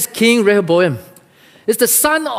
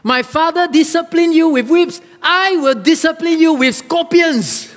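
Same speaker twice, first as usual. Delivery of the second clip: harsh, rising higher toward the end; harsh king; 7 semitones higher than usual. A narrator's reading. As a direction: read the king's threat harshly, climbing in pitch. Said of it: "answered the people harshly".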